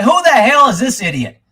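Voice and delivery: retold exasperated outburst, high-pitched; angry cussing. Cussing at a pundit heard on the driveway, angry. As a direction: re-enact cussing at the radio. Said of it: "cussing on a freaking drive".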